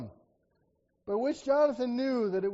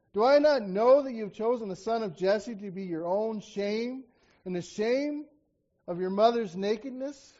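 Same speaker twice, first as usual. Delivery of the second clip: scripture reading. Acted. Preacher reading Saul's curse to Jonathan, forceful. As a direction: read Saul's curse with weight.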